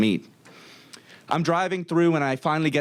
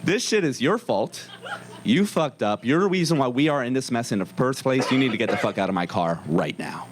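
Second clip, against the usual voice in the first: understated angry dressing-down; white voice dropped. Acted. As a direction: scold the rider in a blunt everyday voice. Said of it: "the white voice is gone".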